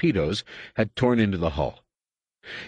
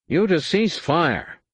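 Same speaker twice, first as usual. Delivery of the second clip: high nasal shout, slowly; a shrill nasal shout of command; 9 semitones higher, slower than usual. A narrator's reading. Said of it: "Sov's nasal voice was shouting".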